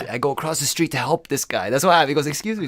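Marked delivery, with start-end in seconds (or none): 2.3-2.7 fake-friendly stranger; polite stranger. Robber repeats his approach.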